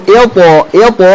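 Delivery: "ilpo" with a heavy, rounded po; thick, unbroken sound. Shown as a demonstration. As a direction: thicken the po in "ilpo" without cutting it off. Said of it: "tebalkan, jangan diputus".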